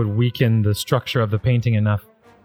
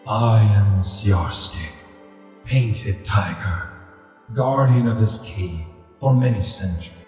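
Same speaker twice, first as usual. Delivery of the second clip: deep rumbling voice. Acted. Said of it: "a deep rumbling voice emanates from this ghostly tiger".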